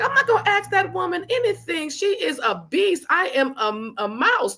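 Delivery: high, playful protest of being scared; mock intimidated. Retelling her fear of the boss, high and mock-timid. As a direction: squeak it like a timid mouse. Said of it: "And I'm like".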